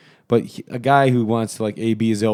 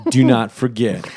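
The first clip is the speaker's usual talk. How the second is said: laughing; 3 semitones higher, 5 dB louder than usual. Real, not acted. Laughing over the price joke.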